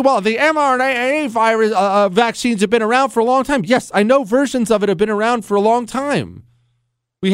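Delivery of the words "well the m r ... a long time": mocking quote. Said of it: "don't do this thing".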